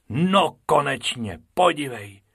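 a small rabbit spotting something; Bobek's voice. Acted. Bobek pointing out rabbits to Bob, eager.

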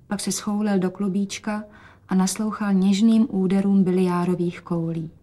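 usual speaking voice

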